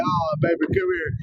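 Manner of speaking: soft, tender comfort; soothing. Retold or imitated. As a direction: coax gently, softly. Soothing husband outwardly.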